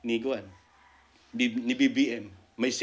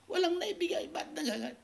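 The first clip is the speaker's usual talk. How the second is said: laughs through the words, pitched up; laughing; 6 dB quieter than usual. Real, not acted. Vlogger scoffing at the secret deal claim, laughing. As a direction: chuckle while scoffing at the claim.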